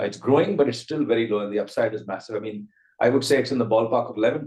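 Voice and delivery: usual speaking voice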